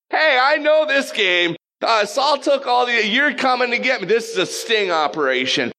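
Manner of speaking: suspicious witch. Retold or imitated. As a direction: play the medium who smells a sting. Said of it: "She's like".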